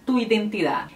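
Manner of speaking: a native-sounding Spanish line; Spanish example. Shown as a demonstration. Teacher quoting a typical Spanish phrase to viewers, Spanish accent. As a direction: read the sentence in a Spanish accent. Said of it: "pra você".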